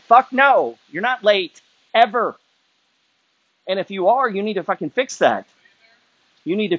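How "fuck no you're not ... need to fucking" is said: sharp, much higher angry retort. Real, not acted. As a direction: snap back in real anger. Angry rant at listeners.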